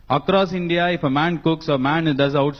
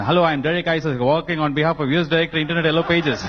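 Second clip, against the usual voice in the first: put-on American accent. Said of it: "We can speak American accent".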